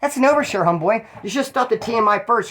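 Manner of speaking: retold scolding. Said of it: "I said".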